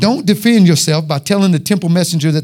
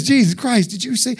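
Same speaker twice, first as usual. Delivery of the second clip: shocked aside; 4 semitones higher, 5 dB quieter than usual. Retold or imitated. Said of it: "Like this".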